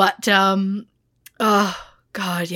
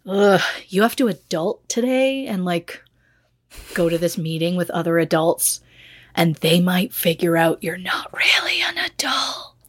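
anxiety voice. Retold or imitated. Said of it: "my anxiety went".

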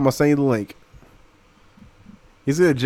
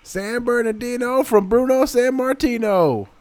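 higher, slow drawn-out announcer call; hammed-up ring announcer intro; mock announcer; 7 semitones higher, slower than usual.

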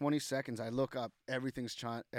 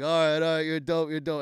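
loud, higher retold surrender; excited concession; 4 semitones higher, 8 dB louder than usual. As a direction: imitate a rival giving props. Imitating the rival conceding.

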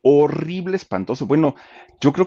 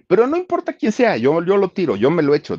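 high, cocky bragging; cocky boast; 9 semitones higher than usual. Retold or imitated. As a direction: brag like a young fighter. Boxer boasts he'll win.

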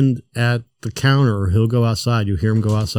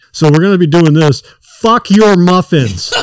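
higher, louder mock managerial tirade; imitated pissed-off rant; 6 semitones higher, 6 dB louder than usual. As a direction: act out a boss losing patience. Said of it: "he's just, like, pissed".

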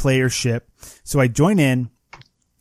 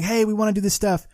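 raised-pitch mock hail at talking volume; light imitation of hollering; retold megaphone yell; 6 semitones higher than usual. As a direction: imitate calling over to another ship. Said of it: "they're yelling through their megaphone saying".

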